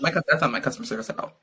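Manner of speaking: mock outrage dissolving into laughter; laughing. Real, not acted. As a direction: giggle through the words. Repeats line laughing.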